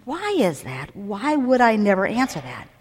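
soft inward questioning, as if thinking aloud; retold wondering. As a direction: voice a puzzled thought softly. Retelling own wondering thought.

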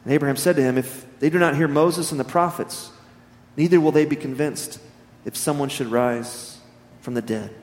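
measured, solemn Bible reading; scripture reading. Acted. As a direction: read the parable with weight. Reads scripture parable aloud.

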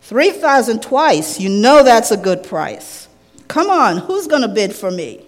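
lightly voiced auctioneer calling bids; loud auctioneer's patter. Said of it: "And then he cried".

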